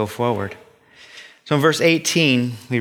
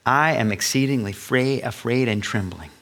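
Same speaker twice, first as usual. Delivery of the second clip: a touch of fear; 2 semitones lower, 4 dB quieter than usual. Retold or imitated. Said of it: "even Moses said".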